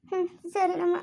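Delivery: reluctant agreement through tears; tearful. Acted. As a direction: give in with a small weepy voice. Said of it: "ಅಳ್ಬಾರ್ದು". (ಅಳುತ್ತಾ ಒಪ್ಪಿಕೊಳ್ಳುವ ದನಿ)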